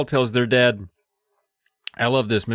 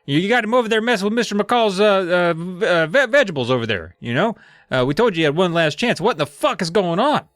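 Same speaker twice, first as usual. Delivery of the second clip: angry dad; 8 semitones higher than usual. Retold or imitated. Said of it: "He's like".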